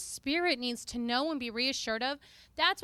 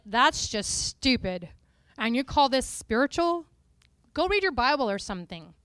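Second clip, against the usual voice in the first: mocking skeptical brain; 3 semitones lower than usual. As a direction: sneer at it like a doubting mind. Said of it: "your brain will be like".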